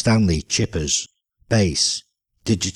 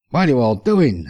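higher and louder, baffled question; dumbfounded; 5 semitones higher, 4 dB louder than usual. Acted. Wayne staring at the mourners, dumbfounded. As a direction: ask in total confusion. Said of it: "enquired Wayne, dumbfounded".

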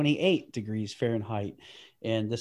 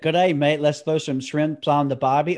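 lightly put-on Australian accent, "G'day, mate" bright; hamming up the tourist Australian line; a hint of a mock Australian accent; mock Aussie cliché; 4 dB louder than usual. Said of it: "Is it".

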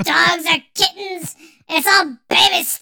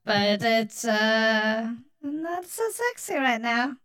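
woman voice filter; 6 semitones lower, 3 dB quieter than usual. Real, not acted. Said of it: "Why do you have an accent?".

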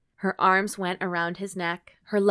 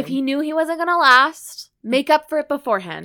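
higher, louder, indignant advice; exasperated rant; 8 semitones higher, 8 dB louder than usual. Real, not acted. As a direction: scold the character passionately. Heated rant about the character.

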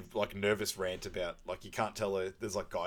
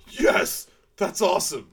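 mock excited yelp; 9 semitones higher, 9 dB louder than usual. Frank shot by trank gun.

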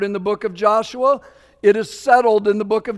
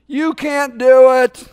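blunt warning; 4 semitones higher, 8 dB louder than usual. Retold or imitated. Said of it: "He goes".

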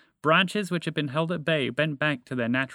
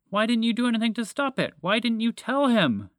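high, loud accusing outburst; angry shout; 10 semitones higher, 4 dB louder than usual. A narrator's reading. Moose blames dragon for frozen friend, high angry shout. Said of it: "Montgomery shouted".

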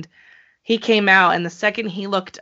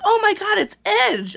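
imitating a thrilled outburst, much higher; excited imitation; 13 semitones higher than usual. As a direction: squeal it like he just recognised Edge. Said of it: "even Mister Queen was like".

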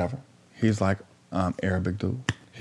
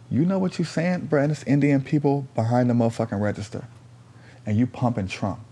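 raised pitch, incredulous questioning; retold indignant challenge; 5 semitones higher than usual. Storyteller confronting the man at the store, indignant. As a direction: challenge him in a higher voice, settling by the end.

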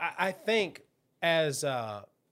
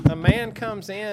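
mock trailer voice; 7 semitones higher, 5 dB louder, slower than usual. Narrating the video intro.

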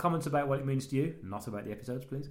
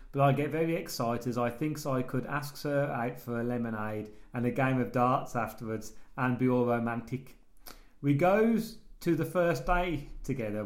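slow, laboured reading in broken English; Rob K; slower than usual. Acted. Host reads listener's letter to co-host, slow character voice. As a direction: read it as a halting, earnest simpleton.

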